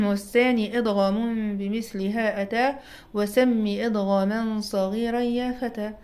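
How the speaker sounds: measured, drawn-out recital of a teaching verse; verse recitation. Shown as a demonstration. Teacher quoting the Tuhfa's author to students, measured verse recitation. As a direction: recite the rhyme slowly and firmly.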